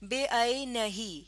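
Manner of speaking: بے عینی slowly, "be-ainahee"; demonstrated reading. Shown as a demonstration. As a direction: say بے عینی slowly with long final ee. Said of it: "اب میں اسے کیسے پڑھ رہی ہوں". (بے عینی آہستہ، آخر میں لمبی "ہی")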